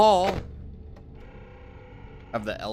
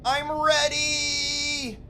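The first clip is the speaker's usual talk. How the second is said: impatient urging; slower than usual. Real, not acted. Impatient with game character.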